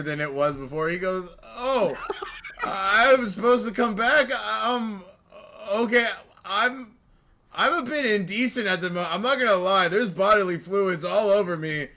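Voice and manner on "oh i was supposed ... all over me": higher, flustered little imp voice; Pip the imp. Acted. GM voicing Pip to the party, flustered and higher. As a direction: babble it, caught dripping and embarrassed.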